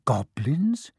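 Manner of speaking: a hushed, breathy whisper. Acted. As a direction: whisper the question. Harry asks in hushed voice.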